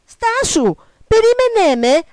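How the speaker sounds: high, loud calling after her; desperate frog shout. Acted. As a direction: cry out to stop someone leaving. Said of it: "φώναξε το βατραχάκι". (δυνατή, ψιλή, ικετευτική κραυγή)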